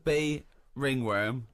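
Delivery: a drawn-out, high-starting why; slow disbelief. Real, not acted. Host questions the odd diagnosis in slow, incredulous wonder. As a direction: stretch it out in disbelief.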